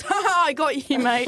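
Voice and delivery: acted-out gleeful gotcha; bursting out laughing. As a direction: imitate a prankster cracking up. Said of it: "bursts out laughing and goes".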